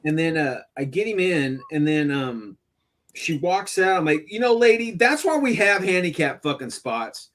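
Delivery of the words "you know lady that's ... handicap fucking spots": higher-pitched indignant telling-off; retold scolding. Father tells off woman who blocked minivan, retold indignation. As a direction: re-enact lecturing a rude stranger.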